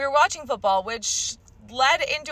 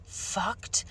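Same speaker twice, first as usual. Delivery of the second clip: slow menacing quote; 4 semitones lower, 7 dB quieter, much slower than usual. Retold or imitated. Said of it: "he was like".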